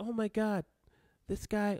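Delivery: high, exclaiming character voice. Imagining a creator reacting to his video: Rebecca Sugar impression. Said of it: "this is my Rebecca Sugar impression".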